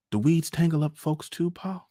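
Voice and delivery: put-on high-pitched little-boy voice; child's question. A narrator's reading. Young son notices father's wistful face and asks, in a child's voice. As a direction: ask Pa as a small boy, high and loud. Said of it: "asked quickly".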